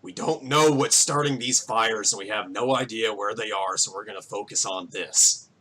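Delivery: low, lightly gruff reply; mildly gruff, firm mayor. Acted. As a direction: answer a crowd firmly as a weathered farmer. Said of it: "a very gruff voice as he speaks".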